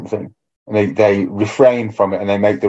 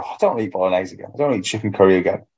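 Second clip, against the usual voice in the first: moaning; 3 dB quieter, much faster than usual. Retold or imitated. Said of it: "having a bit of a moan".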